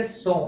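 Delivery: सो said clearly as a Polish word, not the Hindi number; teacher's model word. Shown as a demonstration. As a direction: model सो for students to repeat. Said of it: "वापस से बोलिए".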